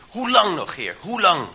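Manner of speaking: high, loud anguished cry of the prophet; prophet's cry. Retold or imitated. Habakuk cries out to God again and again, loud and high. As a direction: call out to God, pitched high and pushed. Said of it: "die roept constant".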